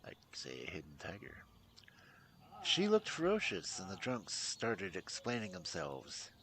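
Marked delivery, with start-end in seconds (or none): 2.6-3.8 higher and louder, punching "looked" in "She looked ferocious". Acted. Repeated aloud after whispered take.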